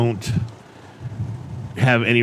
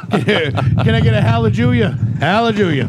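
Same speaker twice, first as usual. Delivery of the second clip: raised preacher call; 3 semitones higher than usual. Acted. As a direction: rouse the congregation. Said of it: "this new character called Pastor Pat".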